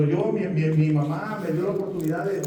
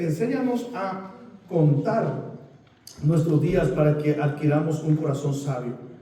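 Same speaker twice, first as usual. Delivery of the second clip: scripture reading; 3 dB louder than usual. Real, not acted. Pastor reads a verse to the congregation, measured scripture reading. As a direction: read the verse out with weight and pauses.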